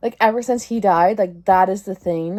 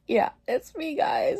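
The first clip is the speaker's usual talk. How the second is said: mock agreeing; 7 semitones higher, 3 dB quieter than usual. Mock admitting to the kids.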